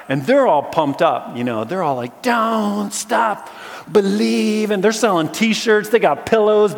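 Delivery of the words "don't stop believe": high, loud cheering fan; cheering crowd. Retold or imitated. Crowd cheering the tightrope walker, high and loud.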